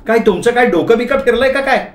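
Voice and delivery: scolding wife. Acted. Wife on the phone scolding her husband, high indignant voice. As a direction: scold him as an outraged wife.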